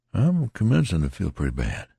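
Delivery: a sick man admitting it; lightly voiced failing soldier; ailing soldier. Tattered man weakening.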